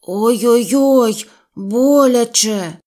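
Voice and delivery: a stuck bear crying ouch; cry of pain. Acted. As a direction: yelp as the pulling hurts. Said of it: "аж поки Пух закричав".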